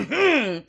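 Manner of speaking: a big pointed throat clear to get attention; a deliberate attention-grabbing ahem; loud throat clearing. Acted. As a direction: clear your throat loudly, like a hint. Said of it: "clear my throat real loud".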